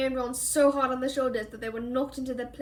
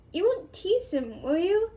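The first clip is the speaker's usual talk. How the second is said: anxious; 6 semitones higher, slower than usual. Acted. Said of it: "she added anxiously".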